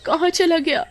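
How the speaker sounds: high, frantic calls for her son; panicked mother. Acted. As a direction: cry out for the lost child in panic. Mother finds son missing.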